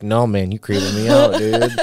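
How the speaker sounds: playing a chill surfer bro; surfer boy voice. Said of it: "You busted the surfer boy voice out".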